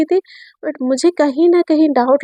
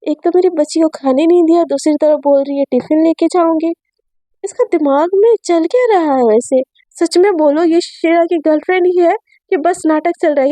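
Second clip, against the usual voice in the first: mother's voice; 3 semitones higher than usual. Acted. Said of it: "तो उसके mummy बोलते कि".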